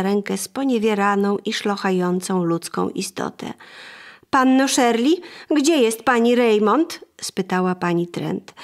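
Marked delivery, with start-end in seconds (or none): 4.3-7.0 raised, indignant complaint at the door; angry lady. Acted. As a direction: scold loudly, higher than the narration. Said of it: "zagniewana pani".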